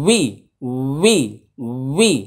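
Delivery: উই said short, clearly repeated; careful demo. Shown as a demonstration. Teacher shows students how to say উই, carefully. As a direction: sound উই crisply each time. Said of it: "একটু মন দিয়ে শুনুন".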